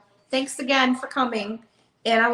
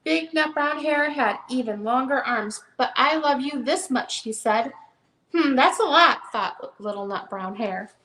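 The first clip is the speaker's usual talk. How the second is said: gentle storybook read-aloud; reading to children. Acted. Seller reads the hare book to viewers, storytelling voice. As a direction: read it like bedtime for a little one.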